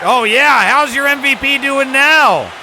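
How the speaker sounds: high, loud teasing jab at the batter; gloating taunt. Real, not acted. Player taunting the struck-out MVP batter, gloating. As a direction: rub the strikeout in his face. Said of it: "I shouldn't talk like that".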